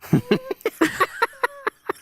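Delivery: high silly croaking frog sound; Largo voice. Acted. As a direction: squeak out a goofy frog noise. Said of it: "Can you do your best Largo impression?".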